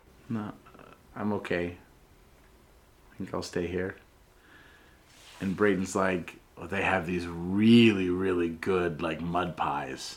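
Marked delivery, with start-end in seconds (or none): 0.2-3.9 mock-shy voice, much quieter. Retelling Sid turning down an offer to get something, acting out Sid being shy. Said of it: "Sid's kind of like doing that shy thing".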